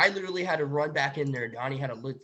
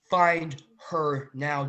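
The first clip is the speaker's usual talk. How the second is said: angry command; 7 dB louder, much slower than usual. Retold or imitated. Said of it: "And I was so mad".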